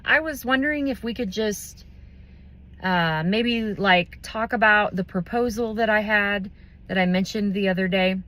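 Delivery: hesitant, unsure. Shown as a demonstration. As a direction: hedge it like an unsure people pleaser. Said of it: "less confident than you are".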